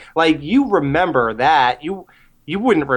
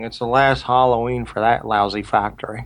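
quoting a movie line; 4 semitones lower than usual. Retold or imitated. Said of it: "I'll tell you one thing".

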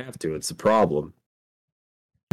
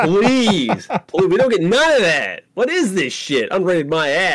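exasperated outburst; 7 semitones higher, slower than usual. Real, not acted. Fans cheated of gore.

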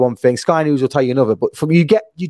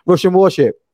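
defiant retort; 6 semitones higher than usual. Retold or imitated. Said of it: "And it goes".

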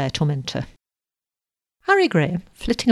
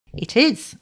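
higher, heartfelt agreement; warm agreement; 6 semitones higher than usual. A narrator's reading. Young man agrees with the girl's complaint, warmly. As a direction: agree warmly, lifting the pitch. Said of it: "agreed Harry Graham warmly".

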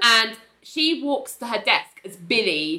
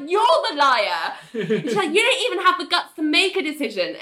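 mock accusing retort; 5 semitones higher than usual.

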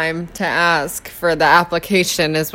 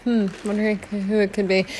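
sarcastic; 6 dB quieter than usual. Retold or imitated. Sarcastic police voice.

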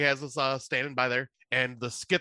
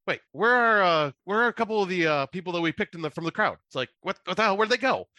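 higher, louder puzzled calling out; mock puzzled host; 6 semitones higher, 3 dB louder than usual. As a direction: play the confused host searching. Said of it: "Brad Sherwood's looking around going".

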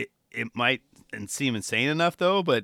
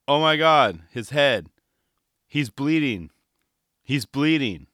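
loud panicked cameraman; mock cameraman yell; 6 dB louder, slower than usual. Cameraman yelling as the skater crashes, mock panic. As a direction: yell it like a cameraman spotting blood. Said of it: "you'd hear a cameraman yelling".

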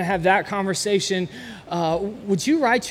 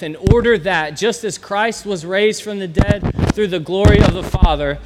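measured, earnest reading of scripture; 4 dB louder than usual. Acted. Pastor reading Romans to close in prayer, earnest. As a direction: read each verse with conviction.

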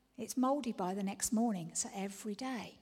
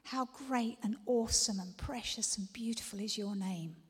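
whispered prayer. Acted. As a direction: pray it under your breath.

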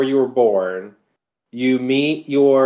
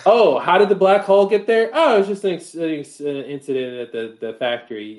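nonchalant. Retold or imitated. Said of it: "almost like a nonchalantness to the answer".

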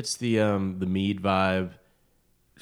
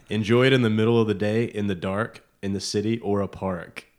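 ad read. Acted. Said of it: "I feel like I'm reading an ad".

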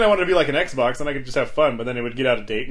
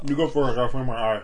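talking around ice cubes; words muffled by ice in mouth. Real, not acted. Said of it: "I have ice in my mouth".

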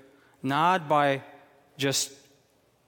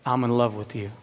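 tender whisper of love; 4 semitones lower than usual. Acted. Pastor voicing God's love to each believer, low and tender. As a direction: drop the voice and say it gently to each listener.

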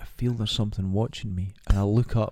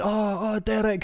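mock high relief; 11 semitones higher than usual. Friends finding him.

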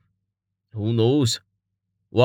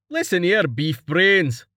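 sharp snap; 7 semitones higher than usual. A narrator's reading. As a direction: bite off the words, higher and sharp. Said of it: "Stavo snapped".

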